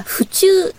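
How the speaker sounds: 府中 with a sharp high pitch jump; local accent. Retold or imitated. Repeats how the gentleman said 府中, sharply high. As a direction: pitch 府中 far up like the local man. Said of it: "おじさまが言うには".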